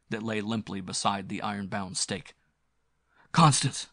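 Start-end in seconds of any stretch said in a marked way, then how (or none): 3.3-3.9 raised, higher cry of a name. A narrator's reading. Hero finds the girl lying limp, crying out. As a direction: call her name out urgently. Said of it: "he cried".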